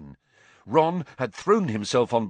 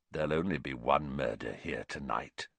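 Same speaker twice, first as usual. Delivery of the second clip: menacing grin; 10 semitones lower, 8 dB quieter than usual. A narrator's reading. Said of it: "said Black, and his grin widened".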